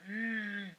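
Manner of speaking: put-on a low, grunty baby hum. Shown as a demonstration. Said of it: "something lower and grunty".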